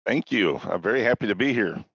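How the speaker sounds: smooth late-night radio voice. Real, not acted. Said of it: "D J voice going on here".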